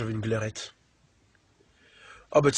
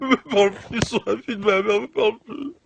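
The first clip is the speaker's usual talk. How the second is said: outraged shout; 11 semitones higher, 9 dB louder than usual. Acted. Boyfriend reacting, laughing shout.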